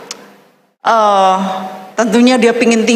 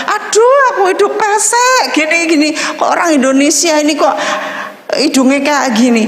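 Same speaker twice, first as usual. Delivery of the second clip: complaining twin; 3 semitones higher than usual. Retold or imitated. Twin grumbling to Westerners about her nose, mild whining. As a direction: moan like a little sister sulking. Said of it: "Padahal dia bilang".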